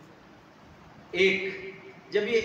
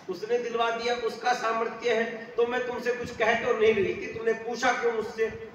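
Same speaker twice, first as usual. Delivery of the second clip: higher and fast, a hammed-up snappy outburst; mock angry wife; 4 semitones higher, faster than usual. Wife snaps at her husband over a necklace, higher and fast. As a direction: rattle it off like a wife picking a fight. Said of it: "तो इतने जोर से क्यों बोल रही हो?".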